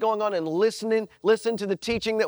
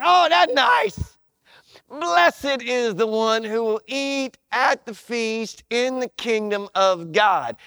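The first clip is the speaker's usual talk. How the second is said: mock pious guest; slower than usual. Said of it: "He's like".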